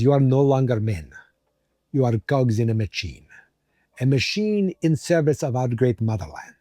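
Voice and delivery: put-on a faint, half-sure Russian accent on a guard's speech; lightly put-on Russian accent, stern guard; attempted Russian accent. Guard lectures prisoners in a weak Russian accent. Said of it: "I'm not even sure if this is a Russian accent".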